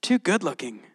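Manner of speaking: mock disbelief, leaping high on "Are you kidding me"; joking incredulity. Preacher voices God reassuring Gideon, joking and incredulous. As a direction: play it as a teasing, incredulous reassurance. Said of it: "God goes".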